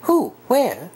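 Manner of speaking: high, quick eager questions. Acted. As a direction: demand to know at once.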